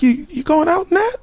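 mom voice. Retold or imitated. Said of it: "one day she was like".

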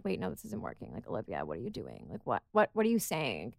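muttering to herself; quietly doubting herself; quiet self-talk. Retold or imitated. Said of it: "I'm like".

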